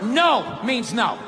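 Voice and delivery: a flirt saying no that means yes; coy playful no. Acted. Comic plays a woman teasing no while meaning yes.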